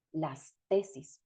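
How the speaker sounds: "las tesis" said slowly, each syllable clear and unchanged; slow careful plural. Shown as a demonstration. Teacher pronounces the plural slowly for students, careful and clear. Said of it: "Aquí entonces les pronuncio".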